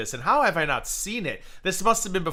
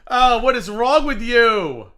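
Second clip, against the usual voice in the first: exasperated; 6 semitones higher, 8 dB louder, slower than usual. Real, not acted. Outraged reaction to clip.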